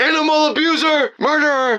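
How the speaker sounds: mock very high, overlapping yelling of several voices. Acting out what others started yelling at the speaker, retelling a group's yelling. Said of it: "others started yelling crazy things like".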